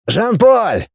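high calling shout. A narrator's reading. Professor calling for Jean-Paul, a high shout. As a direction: call him from across the tower. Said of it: "позвал".

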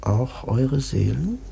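put-on low, mysterious old man; hint darkly at lost souls; mysterious old prophet. Old prophet teasing the sailors about their souls, low.

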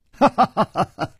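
high, staccato ha-ha-ha; theatrical laughter. A narrator's reading. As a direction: laugh it off in a rapid string. Feigns ignorance with a laugh.

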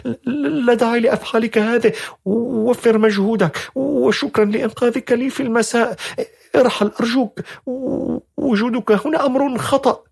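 put-on high, pleading young woman's voice. A narrator's reading. Young woman begging a stranger to leave, high and halting. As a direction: push him away, voice high and halting. Shadha's voice in the story.

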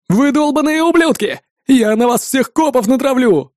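high-pitched furious threat; spiteful. A narrator's reading. Second twin threatens his captors, spiteful. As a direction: spit the insult out with venom. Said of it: "злобно ответил он".

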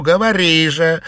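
loud, high order; commanding. A narrator's reading. Mistress demanding the servant's confession, commanding. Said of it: "приказала Фэнзе".

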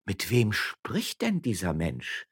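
slow, disdainful question; contemptuous. Acted. Wife scorning her husband to onlookers, contemptuous. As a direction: look down your nose at him. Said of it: "verächtlich".

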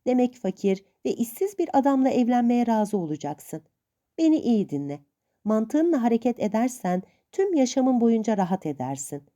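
hint of a stern old aunt. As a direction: lightly play the suspicious old aunt.

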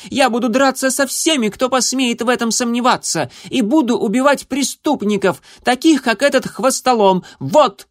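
очень высоко и громко; хвастливый малыш кричит наперекор; запальчивый крик котёнка. A narrator's reading. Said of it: "крикнул он". (котёнок запальчиво кричит)

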